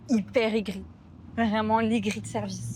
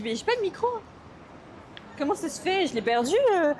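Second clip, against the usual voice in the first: panicked inner voice; 6 semitones higher than usual. Retold or imitated. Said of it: "je me dis".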